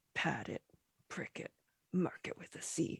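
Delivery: muttering under breath. Voicing the baker's man as he attacks, muttering under his breath. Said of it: "you can sort of hear him muttering under his be-, breath".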